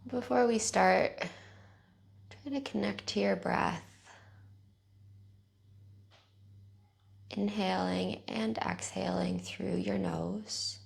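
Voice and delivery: calm, even guiding voice with long pauses; guided meditation. Real, not acted. Teacher guiding listeners through bedtime neck stretches, calm guided meditation.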